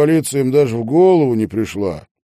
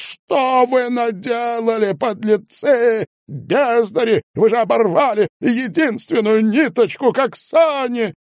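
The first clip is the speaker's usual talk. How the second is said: raised angry voice; 11 semitones higher than usual. A narrator's reading. Medников raising his voice at the detectives, angry. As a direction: rail at them in outrage. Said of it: "Он повысил голос".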